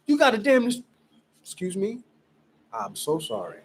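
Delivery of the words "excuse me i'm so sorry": much lower and softer, a quick sorry; sheepish apology. Real, not acted. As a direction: drop your voice and apologize for the slip. Apologizes after cursing on camera.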